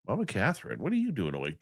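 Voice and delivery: ordinary delivery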